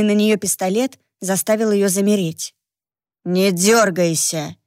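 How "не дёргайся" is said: slow, low, cold command; steely warning. Acted. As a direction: freeze them with steel. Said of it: "В голосе мужчины звучала сталь".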